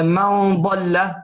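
من ضل with a long held ghunna placed near ض, very slowly; slow drawn-out nasal hum; nasal hiding. Shown as a demonstration. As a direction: stretch the nasal hum before ضل. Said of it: "كقولنا مثلًا".

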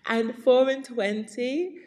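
"four" stretched and rising; stress on four. Shown as a demonstration. Teacher showing the old way to count. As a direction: lean on "four" with a slow lift. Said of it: "an older way of saying twenty-four".

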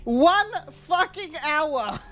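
slow, drawn out disbelief; frustrated recap; exasperated. Real, not acted. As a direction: lean on every word. Exasperated at long fight.

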